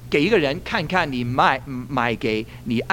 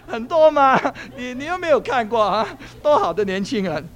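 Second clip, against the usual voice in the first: comic sales pitch to cheer someone up; hammed-up enthusiasm, building to a punchline; joking; 9 semitones higher than usual. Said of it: "我就跟他说笑了".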